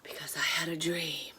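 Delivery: whispering. Real, not acted. Whispered dramatic reveal.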